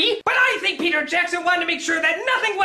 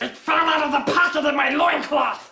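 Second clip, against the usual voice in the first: Gollum voice; 2 semitones lower than usual. Acted. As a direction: shout it like a strange cave creature. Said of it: "sounds like Donald Duck".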